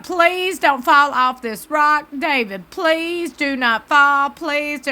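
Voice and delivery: begging under your breath that nothing goes wrong; nervous pleading. Retold or imitated. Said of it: "I was a nervous wreck".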